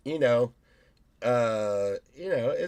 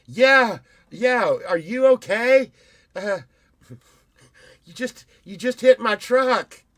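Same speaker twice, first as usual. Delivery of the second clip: mock mocking echo; 9 semitones higher, 10 dB louder than usual. Retold car wreck quarrel.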